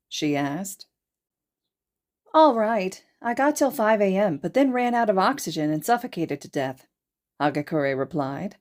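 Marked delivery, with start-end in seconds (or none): 2.3-6.9 put-on higher, louder, chirpy girl; bright girl voice. Upbeat Hagakure recounting her loss, higher and louder.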